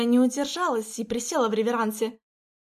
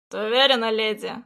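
hoarse voice; 4 dB louder than usual. Acted. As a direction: ask it hoarsely, close up. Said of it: "охрипшим голосом проговорил парень".

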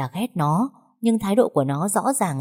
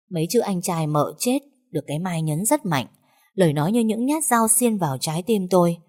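usual speaking voice

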